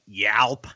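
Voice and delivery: burped yelp. Real, not acted. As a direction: yelp it out like a burp. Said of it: "I say things like".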